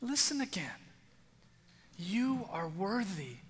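gentle, patient reassurance; patient God. Acted. God reassuring the hesitant Jeremiah, patient and gentle. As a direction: soothe a frightened child. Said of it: "God, infinitely patient, said".

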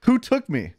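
high-pitched character question; stolen head's demand. Acted. Walt Disney's frozen head asking who stole him, high voice.

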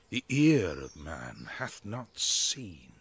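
slow loud declaiming. Acted. Bottom's wondering outburst.

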